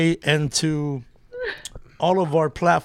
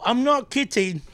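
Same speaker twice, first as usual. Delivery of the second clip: higher-pitched put-on British; playful British imitation; mock British accent; 5 semitones higher than usual. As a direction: say it like a British nanny. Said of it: "that was my Mary, Mary Poppins".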